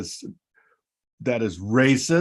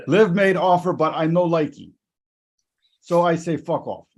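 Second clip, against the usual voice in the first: hammed-up, higher-pitched bad Japanese accent; terrible Japanese accent; 4 semitones higher than usual. Host reading a golfer's parody quote, bad Japanese accent. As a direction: badly fake a Japanese accent. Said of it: "terrible Japanese accent, by the way".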